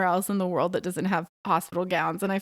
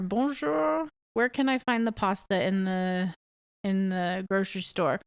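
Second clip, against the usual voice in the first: polite shop greeting. Retold or imitated. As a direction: greet warmly before you ask. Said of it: "When you go into a restaurant".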